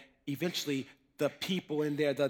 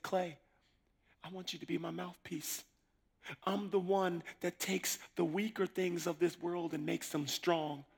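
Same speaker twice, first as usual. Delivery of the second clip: quiet voice of God; 3 semitones higher, 6 dB quieter than usual. Retold or imitated. God speaks to him.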